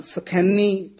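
ਸਖੈਨੀ with a lightly doubled n; slightly tightened. Shown as a demonstration. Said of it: "ਥੋੜ੍ਹਾ ਜਿਹਾ ਕਸ ਕੇ ਹੀ ਬੋਲਣਾ".

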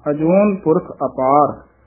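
ਅਜੋਨ said slowly with the plain ਨ, no sihari; ਅਜੋਨ ਪੁਰਖ ਅਪਾਰ recited slowly, syllable by syllable; careful recitation. Shown as a demonstration. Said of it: "ਅਜੋਨ ਦੇ ਇਸੇ ਤਰ੍ਹਾਂ ਹੀ ਸ਼ੁੱਧ ਹੈ".

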